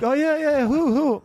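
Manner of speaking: high-pitched mock excited buddies; eager friends. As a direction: imitate pals pressing for the name. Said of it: "They're like".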